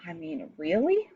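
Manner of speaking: "really" stretched into a rising question; questioning weight on "really"; stress on really. Shown as a demonstration. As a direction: let "really" climb in disbelief. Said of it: "That's the emphasis on really right there".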